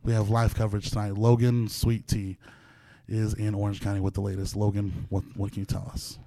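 measured anchor delivery, lightly voiced; formal TV news read. Anchors a mock newscast.

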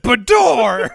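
loud high mock door slam; imitated door sound. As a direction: echo the door sound effect playfully. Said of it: "he said".

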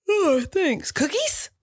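high, eager squeal of delight; excited. Real, not acted. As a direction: perk right up at the word. Sees cookies, eager.

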